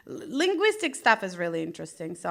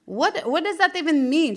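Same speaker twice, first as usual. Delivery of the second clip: baffled; 6 semitones higher than usual. Retold or imitated. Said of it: "I'm like".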